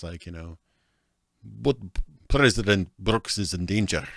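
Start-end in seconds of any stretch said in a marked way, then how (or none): 1.4-4.1 slower, mock Russian accent; amateur Russian accent, slowed down. Shown as a demonstration. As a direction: demonstrate a rough Russian accent. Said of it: "they say something like that".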